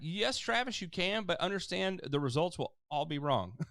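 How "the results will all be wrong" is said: laughing. Real, not acted. Host laughs at his answer.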